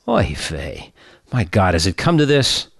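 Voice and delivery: lightly voiced Jewish grandmother; a hint of an old Yiddish lady; yiddish accent. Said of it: "woman answers in joke".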